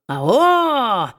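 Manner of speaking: dwarf shouts down from the hammock; sudden shout. A narrator's reading. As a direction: jolt her awake with a yell. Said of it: "вдруг крикнул, да так громко".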